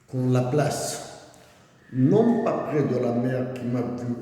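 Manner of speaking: measured, deliberate poetry reading with pauses between phrases; poem recitation. Acted. Reading Akhmatova's poem to a brother, measured recitation. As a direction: recite it line by line, letting each phrase settle.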